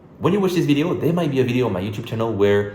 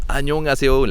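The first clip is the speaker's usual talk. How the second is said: put-on 안녕하세요 in a clumsy foreigner's Korean accent; broken Korean accent; 4 semitones higher, 4 dB louder, much faster than usual. Tourist greeting Koreans, broken-accent hello. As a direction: butcher the Korean greeting a little. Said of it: "with a very broken accent".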